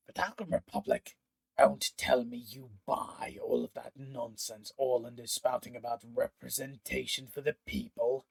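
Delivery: scoffing incredulous villain; mocking disbelief. Pontifex sneering at Marek's politics, mocking. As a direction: scoff at the naive cause.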